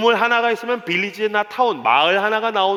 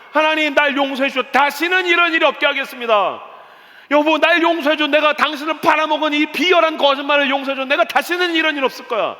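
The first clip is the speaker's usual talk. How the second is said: desperate pleading; 7 semitones higher, 4 dB louder than usual. Acted. Abraham begging God and then his wife for forgiveness, pleading loudly. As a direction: beg forgiveness at full volume, pitched high.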